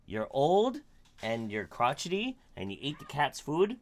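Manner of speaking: gentle pet voice for the dog. Real, not acted. Cooing to her old dog.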